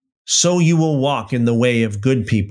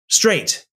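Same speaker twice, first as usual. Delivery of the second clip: Straight said alone, high and falling; stress on straight; 6 semitones higher than usual. Shown as a demonstration. Preacher stressing Straight to the congregation, high and emphatic. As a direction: lean hard on Straight to drive it home. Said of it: "Emphasis on the word straight".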